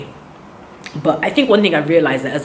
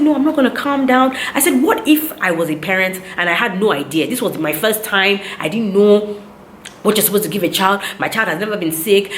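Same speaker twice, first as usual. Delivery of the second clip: higher-pitched, mildly worked-up protest; retold upset; 4 semitones higher than usual. Upset mother retelling her protest to the doctor, indignant. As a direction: re-enact an indignant complaint. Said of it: "At this point, I was very upset".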